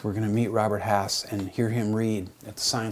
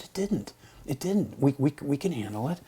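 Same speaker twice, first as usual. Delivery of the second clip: eager reassurance; 4 semitones higher than usual. Retold or imitated. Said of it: "I said".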